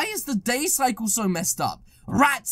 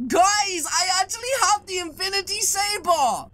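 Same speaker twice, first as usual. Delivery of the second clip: excited disbelief; 5 semitones higher than usual. Real, not acted. Saber appears in shop.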